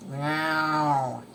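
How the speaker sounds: short falling meow; Gary the snail. Acted. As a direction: answer as a cartoon pet snail. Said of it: "answered Gary".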